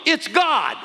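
high, loud laughing cry; yelled with a laugh. Retold or imitated. Shelley yelling to husband on phone call, laughing shout. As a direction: burst it out with a laugh. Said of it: "She yelled".

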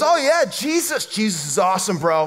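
lightly voiced laid-back hippie; a hint of a mellow "bro" type; earthy hippie. Street stranger answers about Jesus, lightly voiced earthy hippie. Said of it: "stereotypically earthy".

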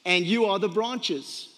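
slow, weighty quoting of Jesus; measured, reverent recitation; slow solemn scripture reading. Acted. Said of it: "where Jesus said".

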